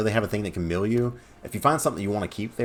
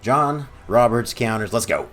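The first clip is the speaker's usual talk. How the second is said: excited; 4 semitones higher, 7 dB louder, slower than usual. Real, not acted. Winning the match.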